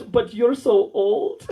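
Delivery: slow, drawn-out imitation of her; imitated female client. Client rejecting older chiropractor, slowly drawn out. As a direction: stretch it out as the woman turning him down. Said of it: "she goes".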